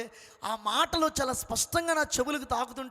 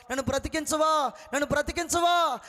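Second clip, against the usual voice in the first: plea getting higher and louder each time; rising cry for life; 4 semitones higher, 5 dB louder than usual. Retold or imitated. Dying man crying out to God to save him, building louder. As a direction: beg louder and louder to be saved. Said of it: "అని కేకలు పెడతా ఉంటే".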